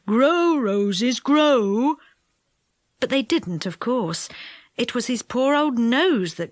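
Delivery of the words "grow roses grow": coaxing command. A narrator's reading. Saucepan commands roses.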